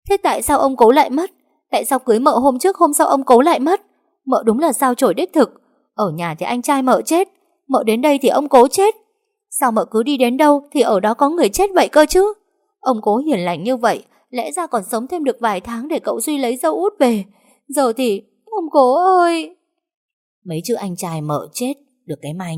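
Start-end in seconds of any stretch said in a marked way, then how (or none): 0.1-1.3 khóc gào cao và to; vừa khóc vừa kêu la thảm thiết; khóc lóc gào. Acted. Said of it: "gục xuống khóc lóc". 1.7-3.8 "trước" kéo dài, cao và to trong tiếng khóc gào; gào lên câu hỏi trong nước mắt; khóc lóc gào. Acted. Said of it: "gục xuống khóc lóc". 4.2-19.6 cao và to, khóc than buộc tội; gào khóc kể lể, cuối vỡ òa chậm; khóc lóc gào. Acted. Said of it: "gục xuống khóc lóc".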